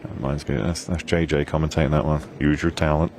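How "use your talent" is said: a hint of Texas, quoting JJ; understated Texas accent impression. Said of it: "That's my best Texas accent".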